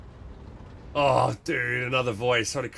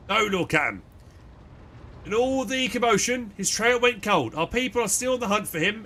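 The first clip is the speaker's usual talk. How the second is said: formal, dutiful first officer; stiff officer voice; 4 semitones higher than usual. Acted. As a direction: speak like a loyal seneschal. Abelard reports to captain.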